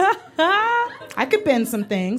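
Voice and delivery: a hint of a spooky oracle, drawn out; lightly voiced Matrix kid; slow mysterious voice. Acting out Matrix line.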